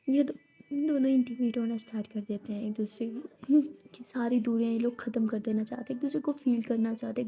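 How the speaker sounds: breathy intimate whisper, telling it close; whispered narration. A narrator's reading. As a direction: hush the voice for the love scene. (फुसफुसाकर कहानी सुनाना)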